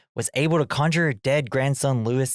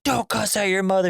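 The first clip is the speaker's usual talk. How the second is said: high-pitched imitation of a reproving dad; retold parental telling-off; hammed-up indignant reprimand; mock scolding; 8 semitones higher than usual. Acted father scolding son.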